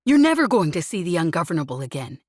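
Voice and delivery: furious rant. Acted. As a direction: pour out guilt and rage at full volume. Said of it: "he snapped furiously".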